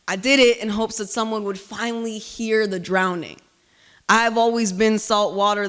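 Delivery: grave, deliberate poem delivery; spoken word poem. Acted. Poet performing her rage poem for the audience, grave spoken word. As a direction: let the rage simmer under each line.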